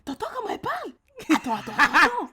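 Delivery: urgently grab the listener's attention; excited. Retold or imitated. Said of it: "t'as dit".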